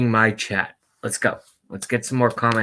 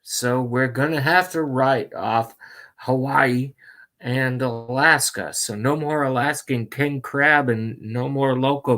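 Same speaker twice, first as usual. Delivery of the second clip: Joe Biden impression. Reading the chat as Joe Biden, a light mock impression. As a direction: drift between topics like a doddering old candidate. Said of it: "I'm gonna read it as Joe Biden".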